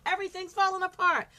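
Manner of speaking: building to high, loud overwhelm; demonstrated rising alarm; acted panic. Shown as a demonstration. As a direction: let the panic mount and spill over. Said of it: "that method means You panic".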